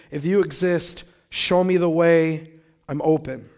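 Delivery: earnest prayer. Retold or imitated. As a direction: pray it out loud, humbly. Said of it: "just praying that".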